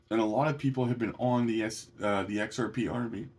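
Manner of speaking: talking through hiccups; interrupted by a hiccup. Real, not acted. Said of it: "I got the hiccups".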